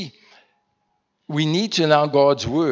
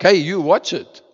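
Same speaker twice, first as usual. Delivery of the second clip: confrontational hey; 4 semitones higher, 6 dB louder than usual. Retold or imitated. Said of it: "you said hey to someone who's like".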